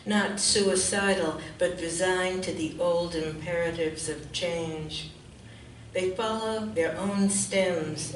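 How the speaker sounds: measured poem recital with deliberate pauses; poetry reading. Real, not acted. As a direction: read it line by line, letting each image land. Reads poem aloud.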